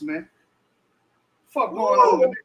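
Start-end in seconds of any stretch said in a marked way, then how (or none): 1.5-2.3 much higher, squeaky, mocking take. Asking chat what's wrong with people, in a squeaky mocking voice. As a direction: squeak it out like a joke.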